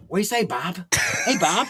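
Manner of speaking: his Bob greeting. Retold or imitated. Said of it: "He's over here going".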